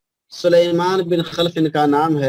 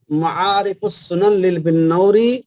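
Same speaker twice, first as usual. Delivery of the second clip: slow dictation; slower than usual. Shown as a demonstration. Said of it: "اس کا حوالہ لکھ لیجئے".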